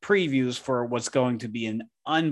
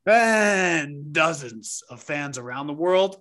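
announcer voice; 2 semitones higher, slower than usual. Acted. Announcer intro.

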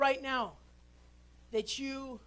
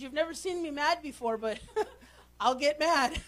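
laughing mock threat; 2 semitones higher than usual.

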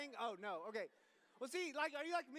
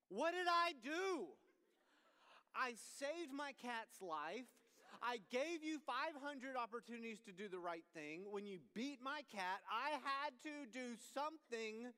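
self-righteous dad; slower than usual. Retold or imitated. Dad in pure anger.

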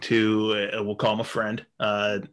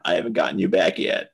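low vengeful aside; 3 semitones lower than usual. Retold or imitated. Wife's hidden threat under crying.

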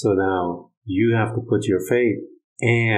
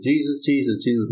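mock calling out, raised pitch; blind man calling; 4 semitones higher than usual. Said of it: "the blind man calling Jesus".

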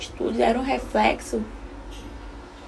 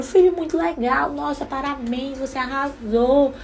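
put-on praising child; 4 semitones higher, slower than usual. Shown as a demonstration. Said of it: "quando meu filho faz uma coisa muito legal, eu falo".

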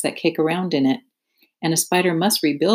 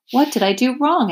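higher puzzled pig voice; dazed pig; 7 semitones higher than usual. Acted. Wilbur asking Charlotte after landing, high and puzzled. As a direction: ask it high and bewildered.

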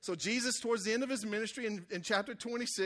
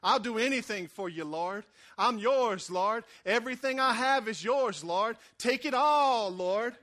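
louder and louder, rising to a cry; fervent devotion; 6 dB louder, slower than usual. Retold or imitated. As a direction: pour it out like a new convert. New believer's fervent devotion.

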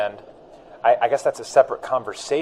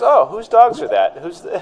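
a high, drawn-out imitation of the clients; lightly imitating surprised clients on sales calls; mock caller, high and slow; 12 semitones higher, 4 dB louder than usual. Imitating a caller asking about the dogs, high and slow. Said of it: "And it's always".

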